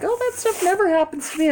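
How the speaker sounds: high, fast airy mocking voice; mimicking oblivious people; mocking naive people. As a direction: toss it off like a clueless acquaintance. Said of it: "people are like".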